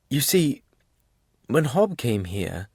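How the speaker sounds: slow, measured explanation; slow, deliberate. A narrator's reading. Albert explaining his request about Hob, slowly. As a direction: take time easing into the explanation. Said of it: "said Albert slowly".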